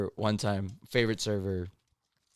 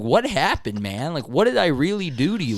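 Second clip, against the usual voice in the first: exasperated; 6 semitones higher, 4 dB louder than usual. Retold or imitated. Confronting the rude customer.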